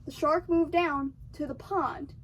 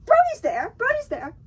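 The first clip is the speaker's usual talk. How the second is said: mocking emphasis; 8 semitones higher, 6 dB louder than usual. Real, not acted. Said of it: "And Brody, Bro".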